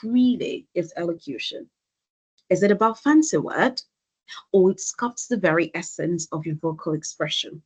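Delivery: measured rhetorical question, a beat before "or it sculpts"; short deliberate pauses. Shown as a demonstration. Coach showing how pauses sound like a thought leader, short deliberate pauses. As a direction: pause after "elocution" and again after "fancy word". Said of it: "using short pauses can help you sound better".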